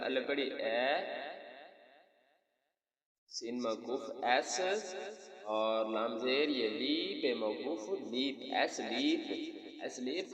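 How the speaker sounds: slow spelling-out of ایس لیپ, piece by piece, then joined; teacher's drawn-out letter-by-letter build-up of ایس لیپ. Shown as a demonstration. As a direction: sound out ایس and لیپ slowly, then blend into ایس لیپ. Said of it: "تو لفظ اس طرح بن جائے گا".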